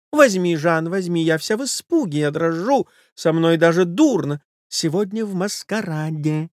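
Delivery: high, breathless society lady voice; a frightened wife begging him off; flustered lady. Acted. Wife pleading with her lover to leave, high flustered voice. Lady's voice.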